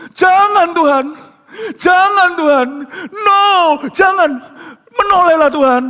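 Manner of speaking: high loud desperate begging; anguished prayer. Retold or imitated. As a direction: plead with God urgently. Friend praying in anguish.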